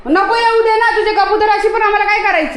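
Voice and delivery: high, loud retort; arguing back. Real, not acted. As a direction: argue back across the distance. Arguing back with man over pigeons.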